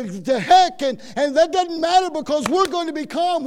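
loud, hearty rallying cry; emphatic, preacherly enthusiasm; upbeat rallying. Acted. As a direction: cheer the cellmates on. Imagined upbeat prisoners rallying each other.

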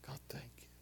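soft, breathless whisper of thanks; hushed, intimate thank you to God; whispered prayer. Shown as a demonstration. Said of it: "come before you and say".

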